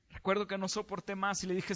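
ordinary talk, nothing marked

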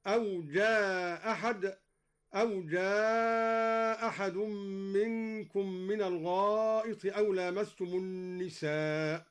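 slow recitation, "جاء" held long and its final hamza dropped. Shown as a demonstration. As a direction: say "جاء أحد" as jaa ahad, only one hamza. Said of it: "أسقط الهمزة على المد والقصر".

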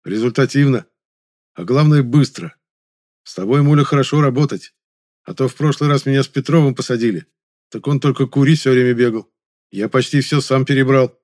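pleased fat man. A narrator's reading. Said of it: "довольно улыбнулся неугомонный толстяк".

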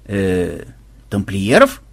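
low, puzzled rise on тамплиеров; surprised question. Acted. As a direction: blink and ask, baffled. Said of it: "удивлённо моргнул трактирщик". (удивлённо: «тамплиеров?»)

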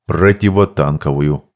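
deep gruff dwarf voice; low, heavy gnome speech. A narrator's reading.

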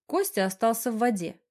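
ordinary delivery, nothing marked

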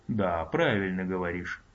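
slow, glum mutter; gloomy grumble. Acted. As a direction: grumble it darkly. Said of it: "волшебник мрачно буркнул".

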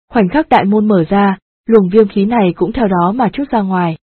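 a hint of an uneasy old man; lightly voiced apologetic elder; ashamed old master. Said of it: "nói với vẻ hổ thẹn bất an".

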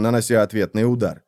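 ordinary delivery

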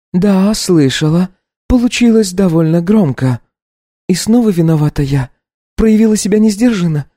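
put-on high, resigned young woman; weary irony; Katya, bitter wife. Wife asks the maid if she heard.

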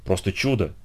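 soft, near-whispered wonder; hushed. A narrator's reading. John marvels at what he has seen, hushed. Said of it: "прошептал Джон".

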